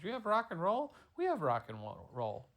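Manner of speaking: can't believe they have it too; amazed. Acted. Girl in dad's story, amazed at rock and roll.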